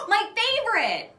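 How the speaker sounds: high, loud, slow gasp of delight. A narrator's reading. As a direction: gasp then gush over the treat. Grabs favourite licorice.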